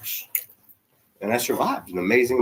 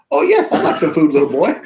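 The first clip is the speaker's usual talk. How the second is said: much higher and louder, laughing through it; 5 semitones higher, 6 dB louder than usual. Retold or imitated. Homeless people answering the little boy, high and laughing. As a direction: play a delighted stranger, laughing as you answer.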